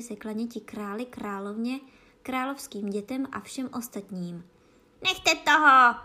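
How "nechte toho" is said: very loud high shriek; vřískot. A narrator's reading. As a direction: shriek the order at full volume. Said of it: "zavřískla královna". (hlasitý panovačný vřískot)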